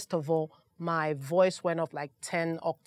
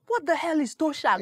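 laughing; 8 semitones higher than usual. Retold or imitated. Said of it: "I kept laughing".

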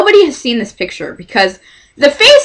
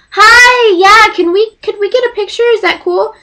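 nervous fan ask; 11 semitones higher than usual. Retold or imitated. Nervously asking for a picture.

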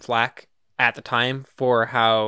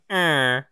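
dusty mummy rasp; 3 semitones higher than usual. Retold or imitated. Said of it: "Which is much funnier than".

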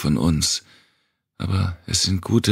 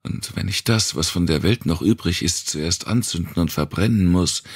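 higher, pressing vow; impassioned plea; 4 semitones higher than usual. Acted. Wanda vows to the girl she'll burn the world. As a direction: pour out every promise urgently.

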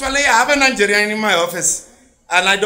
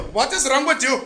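rat's disdain; 4 dB quieter than usual. Retold or imitated. Indian rat scornfully asks the man hitting it. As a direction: look down on him softly. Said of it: "you look".

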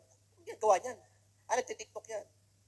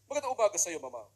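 rich person's voice; 4 semitones lower than usual. Retold or imitated. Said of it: "Pag mga mayayaman, ganyan magsalita eh".

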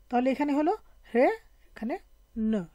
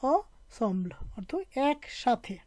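slow model reading; much slower than usual. Shown as a demonstration. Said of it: "তাহলে আমরা কি পড়বো এখানে?".

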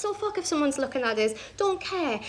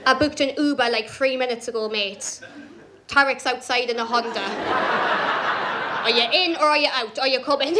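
laughing, impatient. Retold or imitated. Impatiently calling him to the Uber.

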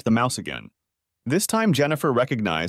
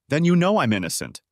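pleading; 6 semitones higher, 3 dB louder than usual. A narrator's reading. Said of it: "Jennifer pleaded".

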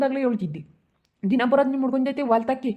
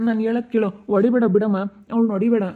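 raised-voice urgent plea; urgent intervention. Acted. Son to mother hitting the girl, urgent plea. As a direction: break up the beating with firm pleas.

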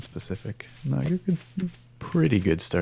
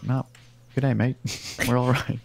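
a hint of joking Australian, a little louder; mock Australian accent; 3 semitones higher, 4 dB louder than usual. Joking about Australia reaching the new date first, mock Australian accent. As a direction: lightly imitate a cheerful Australian accent. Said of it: "everyone in Australia was like".

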